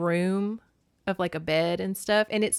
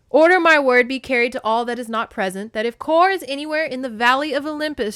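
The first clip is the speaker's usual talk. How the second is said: higher, louder proclamation to the court; commanding queen; 3 semitones higher, 6 dB louder than usual. Acted. Hera decrees before the assembled gods, loud and commanding. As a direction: announce it to the whole hall.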